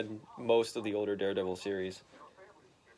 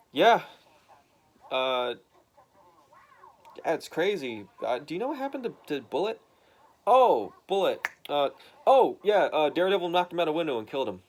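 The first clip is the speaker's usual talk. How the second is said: higher, lightly put-on young son voice; voiced son; 4 semitones higher, 4 dB louder than usual. Son telling his father the news, higher put-on voice. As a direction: play the son, a bit higher. Tim voiced talking to dad.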